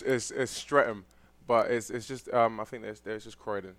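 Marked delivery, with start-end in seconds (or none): 0.3-1.1 "Streatham" said as STRET-um; correcting pronunciation. Shown as a demonstration. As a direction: correct it to "Streatham", with a short first vowel. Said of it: "Did I get it?".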